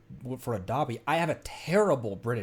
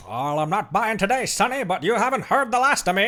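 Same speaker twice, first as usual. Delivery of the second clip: louder and higher hammed-up villain vow; mock threat; 8 semitones higher, 7 dB louder than usual. Traveler threatening the merchant, hammed-up and loud. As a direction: ham up a parting threat with a laugh.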